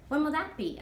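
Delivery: a hint of a small girl's voice; curious girl. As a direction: ask it like an eager kid. Child narrator asks eagerly.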